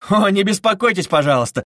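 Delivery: sharp mild exclamation; flaring exclamation, understated; exclaiming. Acted. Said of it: "вскричал Раскольников".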